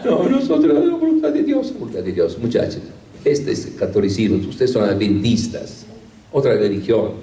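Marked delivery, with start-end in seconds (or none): 0.0-1.7 high, pressing exclamation, pitch far up; a priest firmly setting the youths straight; emphatic insistence. Retold or imitated. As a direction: cry it out as a firm correction.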